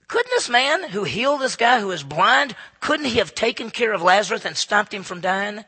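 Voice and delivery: retold protest, punched out loudly; loud incredulous challenge. Onlookers question why Jesus let Lazarus die, loud challenge.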